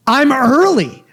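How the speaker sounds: high-pitched, put-upon objection; mock indignant protest. Traveler to gate agent at closed door, high indignant protest. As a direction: re-enact protesting in disbelief.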